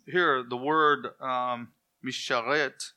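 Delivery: misharet said slowly, mee-sha-RET; Hebrew word misharet. Shown as a demonstration. Preacher introducing the Hebrew word to the congregation, slow and careful. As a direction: spell out misharet carefully, stress on the last syllable. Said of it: "misharet is used".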